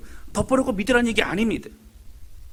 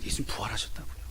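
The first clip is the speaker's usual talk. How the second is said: whisper; 8 semitones lower, 10 dB quieter than usual. Shown as a demonstration. Preacher whispers the key line.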